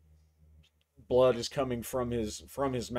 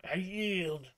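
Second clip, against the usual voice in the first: higher, gasping surrender; hurt man's breathless I yield; beaten instructor yielding; 7 semitones higher, 3 dB louder, slower than usual. Acted. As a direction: give up to the gunslinger, pitched up. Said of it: "he says".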